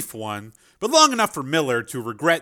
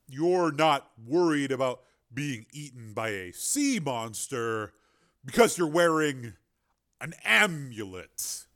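incredulous disbelief; 3 dB quieter than usual. Acted. Miller incredulous at amulet.

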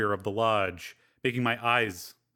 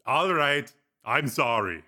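smiling apology; 3 semitones higher than usual. Acted. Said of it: "Breck said with a smile".

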